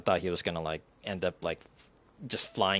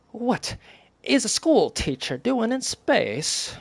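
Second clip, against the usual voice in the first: much higher, slow cartoonish voice; trying another silly voice; 13 semitones higher, 3 dB louder, slower than usual. Grace cycling through voices, much higher slow cartoon voice. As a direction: stretch it out in a high silly voice. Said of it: "trying to go through various voices".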